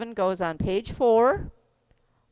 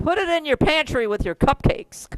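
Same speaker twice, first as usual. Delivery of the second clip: excited quote; 7 semitones higher, 5 dB louder than usual. Retold or imitated. Quoting favorite lyric line emphatically.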